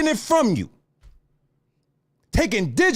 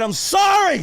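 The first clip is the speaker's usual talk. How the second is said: shouted mock apology; 4 semitones higher than usual. Streamer shouts a mock apology to Daddy. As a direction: yell the apology in jest.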